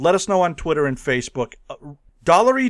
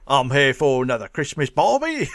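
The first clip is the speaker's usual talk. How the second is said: mock Australian accent; 3 semitones lower than usual. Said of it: "Australian slang".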